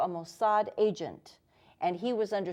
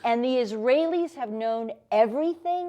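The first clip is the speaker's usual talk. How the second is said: hysterical; 3 semitones higher, 3 dB louder than usual. Retold or imitated. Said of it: "I was hysterical, I was screaming".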